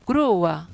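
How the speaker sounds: "Grua" split as GRU-a; careful two-syllable "Grua"; vowels in hiatus. Shown as a demonstration. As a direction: stress the u of "Grua" apart from the a.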